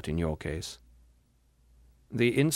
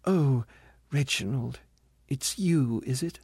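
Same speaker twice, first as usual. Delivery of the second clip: a lightly voiced ghost, higher, deflated to see him; unconcealed disappointment; 4 semitones higher than usual. Ghost meeting her brother, who isn't her son: disappointed. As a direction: let the letdown show, it's only him. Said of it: "in a tone of unconcealed disappointment".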